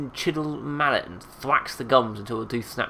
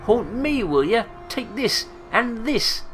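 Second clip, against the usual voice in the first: high, loud outraged cries; furious attack; 12 semitones higher, 4 dB louder, slower than usual. Acted. Marta pounding the corpse with fists, furious. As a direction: spit out each phrase with a blow.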